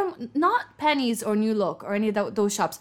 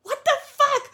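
high, loud mock outburst; imitating the stranger's outburst; disgusted outburst; 4 dB louder than usual. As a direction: squeal it in disgust. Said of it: "the girl was like".

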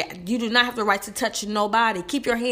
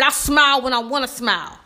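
firm retort. Retold or imitated. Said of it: "I said it just like that".

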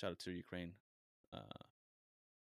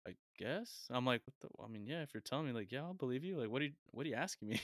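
retold bewilderment, higher and questioning; super confused; 4 semitones higher than usual. Gym-goer cornered by an older man's odd question, acting out confusion. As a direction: stumble through it, baffled, pitch lifting. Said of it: "I'm, like, super confused".

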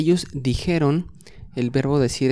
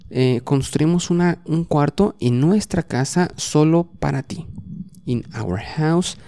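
story reading. A narrator's reading. Reads bible story bilingually.

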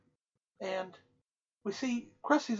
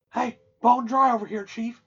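louder, mock drunken holler; making a scene; 3 semitones higher, 7 dB louder than usual. Drunk customer hollering at the server for water, making a scene. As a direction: call out for service, half-shouting. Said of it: "making a big scene".

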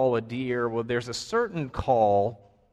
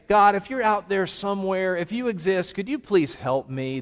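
lightly acted plea, starting higher and settling down; foxhole prayer; 6 semitones higher than usual. Unsure person praying to God if he exists, mildly pleading. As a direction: voice a mock tentative prayer to a God you doubt. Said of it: "This is not a foxhole prayer".

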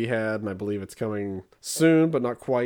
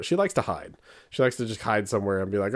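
ordinary delivery

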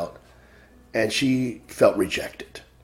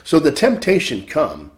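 rising and falling sermon cadence, punching key words; preaching; 2 semitones higher than usual. Acted. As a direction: exhort the flock to fear the Lord. Preaches to congregation.

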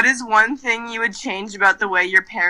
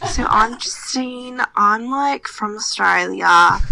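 slow put-on Australian accent, lightly done; a hint of Australian, performed on request; 3 dB louder, slower than usual. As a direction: drawl it out in a playful Australian accent. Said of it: "ask your question in Australian accent".

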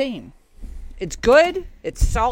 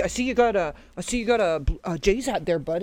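put-on Canadian accent. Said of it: "the Canadian accent last night".

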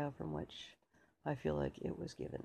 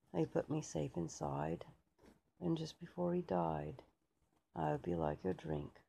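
tipsy British soldier. Acted. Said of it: "who'd maybe had a few beers".

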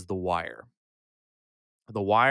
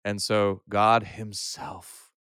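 youth pastor voice. Shown as a demonstration. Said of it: "you ready for my youth pastor voice?".

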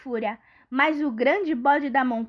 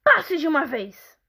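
greedy troll; 3 semitones higher than usual. Acted. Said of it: "disse o troll guloso".

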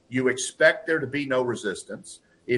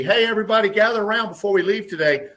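raised, higher announcing voice; boss calling everyone over; 4 semitones higher than usual. Retold or imitated. Manager rallying the crew to praise Bob, raised announcing voice. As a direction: call the team together like a proud manager. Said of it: "So it could simply be".

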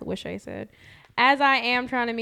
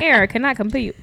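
robot voice; 2 semitones higher, 9 dB louder than usual. Retold or imitated. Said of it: "They're gonna be like".

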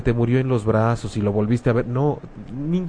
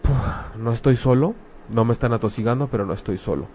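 relieved sigh; 2 semitones lower, 4 dB quieter than usual. Retold or imitated. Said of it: "de entrada es como".

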